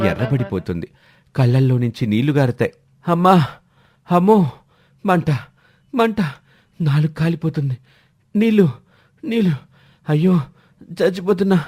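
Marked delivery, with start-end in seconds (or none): 3.0-11.6 high, frantic yelps for water; gasping, panicked cries from a chilli-scorched mouth; burning mouth cries. Acted. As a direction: howl like your tongue is on fire.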